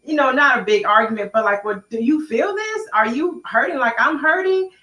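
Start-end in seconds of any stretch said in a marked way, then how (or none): 1.6-4.7 high, slowed, pleading question; hurt plea. Retold or imitated. Wife retelling asking husband if he is hurting too, high and pleading. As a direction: ask if he feels her pain. Wife quoting herself in argument.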